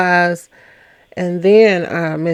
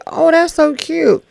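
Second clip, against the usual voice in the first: gushing, imitating Tay; 9 semitones higher than usual. Retelling Tay's gushing.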